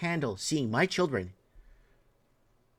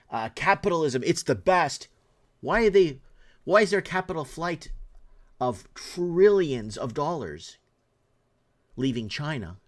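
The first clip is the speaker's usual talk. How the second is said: heated questioning; 2 semitones higher, 5 dB louder than usual. Real, not acted.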